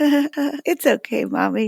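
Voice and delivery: high, slow imitated child voice; a kid slowly reassuring mom; little daughter forgiving. Daughter voiced in retold story.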